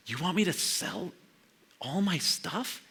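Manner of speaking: can't believe what's asked; mock disbelief. Preacher voicing a stunned hunter asked to sell everything.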